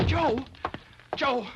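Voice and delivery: high, loud call across the street. Acted. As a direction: call his name to stop him. Calling out to Joe.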